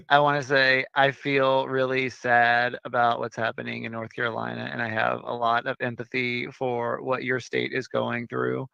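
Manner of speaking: low, subdued, tired voice; sleepy. Real, not acted. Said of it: "Why you sound sleepy?".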